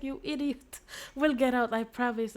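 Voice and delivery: high, loud hammed-up gruff comfort; mock tough reassurance. Defender reassuring the girl, hammed-up high and loud. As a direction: play the gruff hero soothing her. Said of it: "And he's like".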